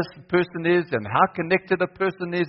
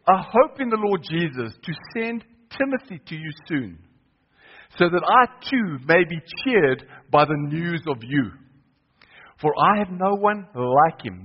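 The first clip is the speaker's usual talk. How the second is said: scripture reading. Acted. Preacher reading Paul's letter aloud to the church, measured. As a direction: read Paul's words to the congregation deliberately. Reads Philippians aloud to congregation.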